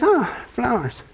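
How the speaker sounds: slow, flat "Oh, flowers"; "Oh, flowers" said slowly and softly, no thrill at all; unimpressed wife. Retold or imitated. Wife bored by yet another bouquet, slow and deflated.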